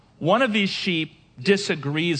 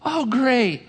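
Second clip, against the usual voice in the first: mock fake enthusiasm; 6 semitones higher than usual. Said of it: "And you're like".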